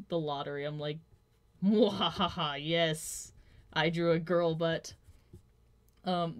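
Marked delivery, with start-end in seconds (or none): 1.6-4.9 gloating evil cackle into cheer; triumphant villain delight; mad scientist. Pretend. Gloating over a finished drawing.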